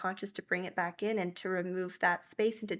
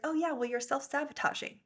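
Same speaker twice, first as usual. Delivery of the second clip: casual, offhand remark, pitched higher; 6 semitones higher than usual. Retold or imitated. Guy friend casually calls out her self-sabotage, casual. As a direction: toss it off casually. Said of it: "he said it so casually".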